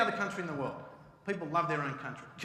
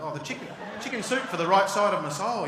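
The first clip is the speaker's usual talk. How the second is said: mock self-help voice; 4 semitones higher, 10 dB louder than usual. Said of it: "You're like".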